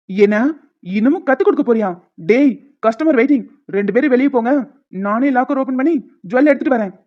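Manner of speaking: irritated boss-like orders; angry mood. Acted. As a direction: send them out, fed up. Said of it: "நீ ஏதோ கோவமான மூட்ல இருக்க". (கோபமாக விரட்டுவது)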